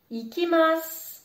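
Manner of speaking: ikimasu said with a silent final u, ending on s; u final muet. Shown as a demonstration. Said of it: "je ne prononce pas le U". (ikimasu, le u final avalé)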